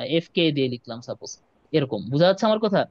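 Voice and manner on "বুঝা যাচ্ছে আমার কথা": choppy audio breaking up; call dropping out. Real, not acted. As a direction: voice cutting in and out on a bad line. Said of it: "এখন কথা কেটে কেটে আসছে".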